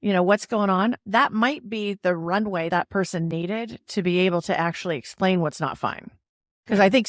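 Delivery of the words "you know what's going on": compassionate ask. Shown as a demonstration. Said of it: "with authenticity and compassion".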